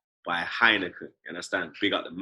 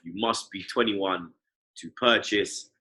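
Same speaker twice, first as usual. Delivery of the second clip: muttered disclaimer; 7 dB quieter than usual. Acted. Mumbled ad disclaimer.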